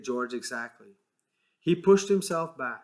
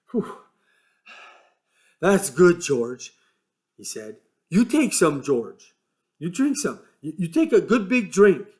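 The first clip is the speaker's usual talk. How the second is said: lightly voiced simple giant, eager; lively, childlike Lenny urging a drink; Lenny's voice; 4 semitones higher, 7 dB louder than usual. A narrator's reading. Lenny offering George the pool water, eager.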